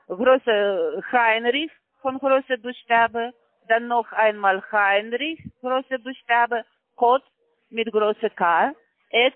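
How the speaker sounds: slow, careful spelling of letters; dictating an email address letter by letter. Real, not acted. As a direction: spell each letter slowly and deliberately. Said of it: "ich buchstabiere Ihre E-Mail-Adresse".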